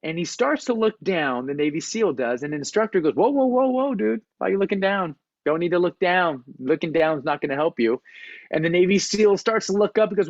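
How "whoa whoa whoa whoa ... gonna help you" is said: mock-alarmed whoas, higher, laid-back dude; hammed-up surfer dude. Instructor teases the Navy seal for looking down, mock-alarmed dude voice. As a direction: play the chill instructor hamming up alarm. Instructor scolds frozen climber.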